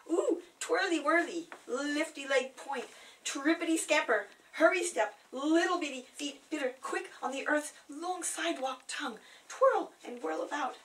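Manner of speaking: high, loud, skipping sing-song; playful dance. Acted. Narrator celebrating her twinkle-toed sneakers, high playful sing-song. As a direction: bounce the words like dancing feet. Playful ode to dancing feet.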